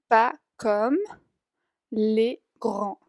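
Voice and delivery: grands dicho "grã", sin D ni S final; les grands sin D ni S. Shown as a demonstration. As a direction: cierra les grands en la vocal nasal. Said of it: "la D y la S al final no se pronuncia". (les grands pronunciado "le grã")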